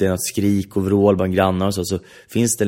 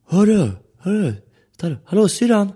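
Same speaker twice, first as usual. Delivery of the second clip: retold shout; 12 semitones higher than usual. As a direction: yell it across the street to stop them. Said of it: "han bara skriker".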